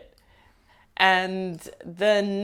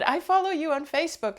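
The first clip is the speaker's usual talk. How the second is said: imitating the fan; 9 semitones higher than usual. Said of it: "and she said".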